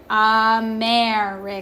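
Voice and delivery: AMERICANS as uh-MAY-ricans, the E held; A sound. Shown as a demonstration. Teacher shows the E making an A sound in Americans, sounded out. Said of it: "making that A sound".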